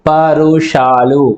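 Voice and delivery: పరుషాలు slowly, every syllable drawn out; slow emphatic term. Shown as a demonstration. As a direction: spell out పరుషాలు slowly for the class. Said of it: "కొంచెం పరుషంగా అంటే కఠినంగా పలుకుతాం". (నెమ్మదిగా, స్పష్టంగా పరుషాలు)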